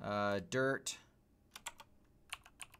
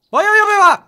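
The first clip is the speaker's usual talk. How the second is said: very high, loud despairing wail; anguished wail; 25 dB louder than usual. Real, not acted. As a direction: wail it to the sky in dismay. Despair at a game mishap.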